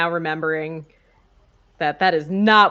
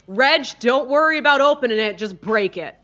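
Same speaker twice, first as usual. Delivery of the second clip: calling out louder to Reg; rallying call to Reg; yelling out; 4 semitones higher, 5 dB louder than usual. Acted. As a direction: shout the order across the yard. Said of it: "I'm gonna yell out and just say".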